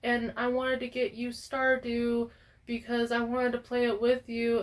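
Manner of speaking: lightly voiced friend. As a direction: quote your friend gently, slightly up and soft. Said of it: "My friend was like".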